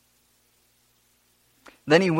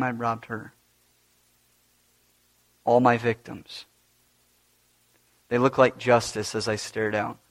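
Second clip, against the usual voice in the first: Barabbas telling his story. Acted. Preacher speaks as Barabbas, recalling the crowd, hushed. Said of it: "I'll let Barabbas tell you".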